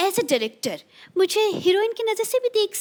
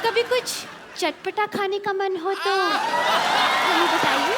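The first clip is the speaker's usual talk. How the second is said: drawn-out coy invitation; slow flirty tease; much slower than usual. Acted. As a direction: say it slow and suggestive. Flirting with Anurag. (नखरीले अंदाज़ में धीरे से)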